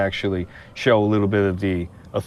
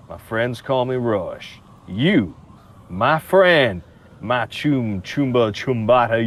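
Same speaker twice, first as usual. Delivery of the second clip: Southern charm; 2 semitones higher, slower than usual. Acted. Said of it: "I like the sound of your southern charm".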